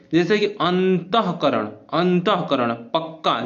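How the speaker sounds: अंतःकरण slowly, each syllable pressed; stress demo. Shown as a demonstration. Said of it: "जैसे हम pressure डालते हैं". (अंतःकरण को धीरे-धीरे, बल देकर बोलें)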